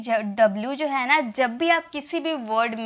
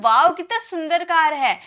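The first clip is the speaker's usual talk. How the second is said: mock wow; 4 semitones higher than usual. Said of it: "अचानक एक feeling, feeling आएगी ना".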